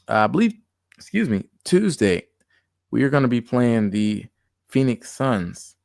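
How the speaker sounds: talking through hiccups; words broken by a hiccup. Real, not acted. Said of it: "I got the hiccups".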